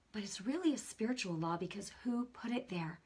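soft confiding whisper. Real, not acted. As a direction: lean in and whisper the point. Stresses God made gravity.

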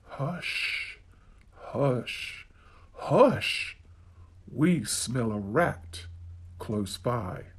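put-on a secretive storyteller hushing children; hushed whisper. Storyteller hushing listeners about a nearby rat, whispered.

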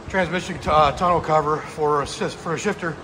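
catching breath midword; breathless from the heat. Real, not acted. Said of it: "I can't talk, sorry, it's hot".

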